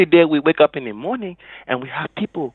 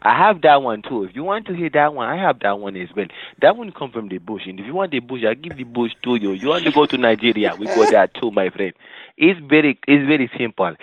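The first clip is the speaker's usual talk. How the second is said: put-on lilting Nigerian accent; sing-song put-on Nigerian accent; 2 semitones lower than usual. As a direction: speak like a Nigerian from the bush. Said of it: "I have the Nigerian accent as well".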